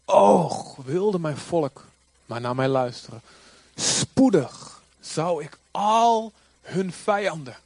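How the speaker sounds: slow proclamation opening on a loud "Och"; crying out. Acted. Preacher quoting God's cry, slow declamation. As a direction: launch with an outcry, then measured emphatic phrases. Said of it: "God roept het uit en zegt".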